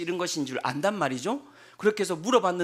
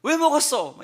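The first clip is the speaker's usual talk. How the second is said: loud, slow mock scolding; mock angry scolding; 5 semitones higher, 6 dB louder, slower than usual. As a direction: scold her loud and slow, as he did not. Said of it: "이렇게 하셨겠습니까?".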